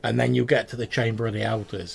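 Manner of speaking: goblin giving directions. Acted. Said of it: "He's like".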